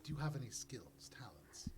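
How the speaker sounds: lightly voiced, whispery interviewer; hushed question, dropping away on the last word; Mister Gift. Mister Gift asks Glub about skills, in a lightly hushed voice. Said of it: "Mister Gift just goes".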